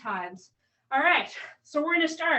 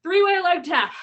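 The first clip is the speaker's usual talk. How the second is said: "Three-way leg tap" said again, louder and clearer; louder restart; 3 semitones higher, 6 dB louder than usual. Real, not acted. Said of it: "Sorry, I'm feeling a little out of breath".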